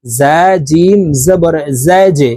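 slow spelling, final জে bounced downward; downward qalqalah bounce. Shown as a demonstration. Teacher demonstrating qalqalah on jim, জা জে bounced downward. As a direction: push off the jim in জা জে with a short echo. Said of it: "নিচের দিকে ধাবিত করে ধাক্কা দিয়ে উচ্চারণ করব".

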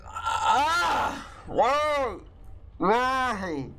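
high startled yelps. Real, not acted. Gamer startled by the monster, yelping high. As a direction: yelp as something jumps out. Jump scare in horror game.

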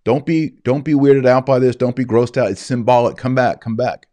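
hammed-up plea to disciples walking away; pleading Christ. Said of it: "And Christ didn't say".

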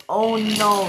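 high "oh no" of dismay; alarmed cry. Acted. Stephen seeing the accident, high dismayed cry. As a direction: exclaim in acted alarm.

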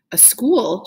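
rising amazed repeat of "school"; astonished echo. Acted. Naya echoing her father in disbelief, amazed. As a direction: echo his words back, stunned. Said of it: "she echoed".

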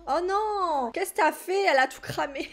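high, loud exclamation of dismay; high-pitched exasperated "oh no" reaction; dismayed outcry. Real, not acted. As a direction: cry out at a small disaster. Food burns in the game.

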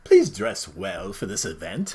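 slow, prim mock English accent. Host reading a saying option in a mock English accent. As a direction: read it like a posh Englishman. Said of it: "that's a Serbian accent".

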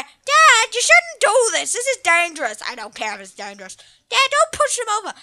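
put-on a boy begging his father to stop; worried child voice. Son warning his dad about the danger, in a high, worried kid voice.

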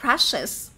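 brushes with the iz ending clearly sounded. Shown as a demonstration. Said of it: "phát âm phải là is".

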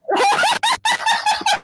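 high-pitched burst of laughter. Real, not acted. Laughing amid online insult match.

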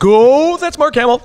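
high, loud starstruck gush. Retold or imitated. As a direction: gush it like an awed fan recalling the moment. Retold starstruck outburst in session.

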